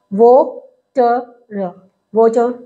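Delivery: वाटर split into वो, ट, र, then blended whole; sounding out वाटर. Shown as a demonstration. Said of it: "तो देखो वाटर में".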